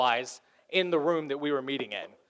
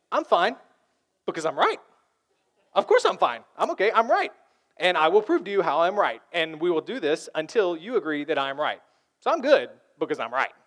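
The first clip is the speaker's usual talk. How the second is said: pushy and louder, hammering I'm right; insistent arguer; 4 dB louder than usual. Retold or imitated. Pastor voicing the litigator, insistent and argumentative. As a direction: press every point like a lawyer. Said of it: "the litigator".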